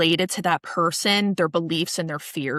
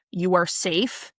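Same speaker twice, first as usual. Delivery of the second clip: soothing reassurance. Shown as a demonstration. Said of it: "emphasize safety and love and support".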